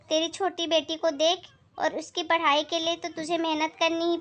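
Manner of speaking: lightly voiced sharp-tongued aunt; scolding neighbour aunt. Neighbour chides Sheela about her daughter, blunt.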